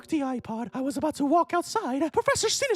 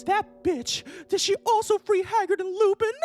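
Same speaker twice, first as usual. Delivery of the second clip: angry shout; 4 semitones higher than usual. Acted. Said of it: "I shouted angrily".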